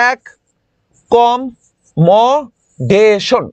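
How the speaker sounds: "এক" "কম" "মডেশন" with pauses, last part very slow; split into parts. Shown as a demonstration. Teacher dividing accommodation for memorizing. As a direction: cut it into "এক কম মডেশন". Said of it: "এই যে ভাগ করে ফেলছি".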